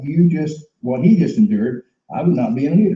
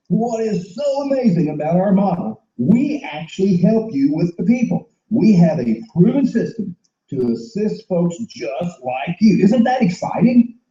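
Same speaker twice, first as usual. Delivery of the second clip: hyped sales pitch; 6 semitones higher than usual. Acted. Role-played enthusiastic recruiter pitch.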